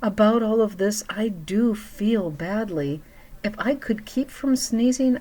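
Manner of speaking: high, pleading elephant about to sneeze; elephant character. Acted. Elephant to the animals, pleading before a sneeze.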